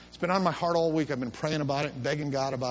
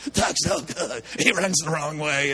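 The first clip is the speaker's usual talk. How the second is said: put-on crying boy; slower than usual. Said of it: "Ronnie was crying".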